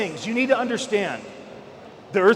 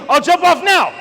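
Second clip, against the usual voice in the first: dad's thought; 8 semitones higher, 6 dB louder than usual. Retold or imitated. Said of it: "and he'd think".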